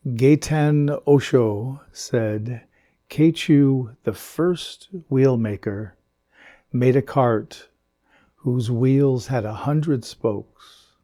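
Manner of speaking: slow, measured reading with pauses; koan recitation. Acted. Teacher reads a Zen koan to students, slow measured recitation. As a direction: read it out slowly, phrase by phrase.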